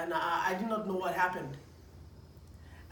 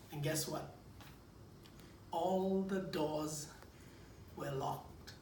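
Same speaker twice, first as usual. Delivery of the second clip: slow, much softer, dropping low; dramatic hush; 4 semitones lower, 8 dB quieter, slower than usual. Retold or imitated. Preacher revealing the locked car doors, slow hush. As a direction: let it sink in, hushed.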